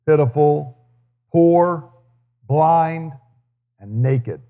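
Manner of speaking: measured, solemn Bible reading voice; scripture reading. Acted. Pastor reads the letter to Laodicea to the congregation, solemn scripture reading. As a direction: read the words of Jesus out to the church with weight. Reads Revelation passage aloud.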